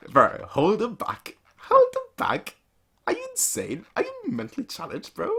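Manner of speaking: high, loud panicked protest; frantic yell. Retold or imitated. Officer yelling at his reckless commander, high panicked shout. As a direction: shriek at the fool to hold back. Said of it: "He's like".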